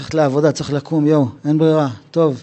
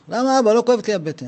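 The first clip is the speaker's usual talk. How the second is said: puzzled son; 5 semitones higher, faster than usual. Acted. Son voiced in story.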